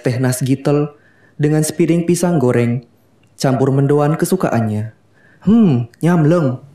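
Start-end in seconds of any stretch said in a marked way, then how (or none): 5.4-6.6 slow, savoring hum of delight. Acted. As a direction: relish the taste, drawn out. Savoring tea and snacks.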